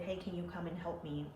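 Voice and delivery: soft, discreet retold request. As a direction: keep it down so others don't hear. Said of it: "I said it very s-, discreetly".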